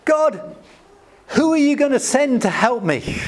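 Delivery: high, pleading voice of Moses. Retold or imitated. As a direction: plead upward to God, pitched high. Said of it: "he says to God".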